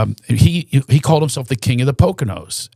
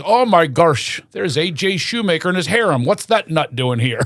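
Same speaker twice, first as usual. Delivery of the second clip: mildly astonished Pennsylvania local; Shamokin Pennsylvania accent; 3 semitones higher than usual. Retold or imitated. Tour guide spots a local nut, astonished Shamokin Pennsylvania accent. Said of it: "with that Shamokin, Pennsylvania accent".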